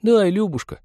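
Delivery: put-on very high girlish begging; wheedling girl's voice; cheerful, plaintive girl. A narrator's reading. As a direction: chime in with a playful plea. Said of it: "подхватила весело и жалостливо другая".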